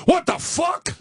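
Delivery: high-pitched imitation of a shocked child; startled little boy. Five-year-old son spots a bug in the sandbox, mock shock. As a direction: mimic a kid's high yelp of alarm. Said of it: "he sees a bug and goes".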